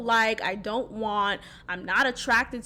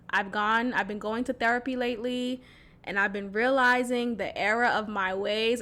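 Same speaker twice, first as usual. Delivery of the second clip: quieter, earnest apology read; softly voiced remorseful ex; soft sincere apology; 2 semitones lower, 4 dB quieter than usual. Shown as a demonstration. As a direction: say it like you truly mean sorry.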